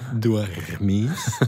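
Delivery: Dormis drawn out through the R, rising; own R. Shown as a demonstration. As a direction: stretch the R in Dormis and lift the end. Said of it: "Mein R". (Dormis mit zogenem R)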